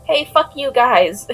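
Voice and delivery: loud, high, deadpan joke rant; mock outburst. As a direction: yell it, half laughing. Joke message to bosses.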